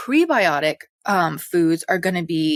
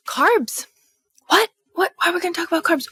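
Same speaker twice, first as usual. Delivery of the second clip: mock incredulous; 11 semitones higher than usual. Mock incredulous question about carbs.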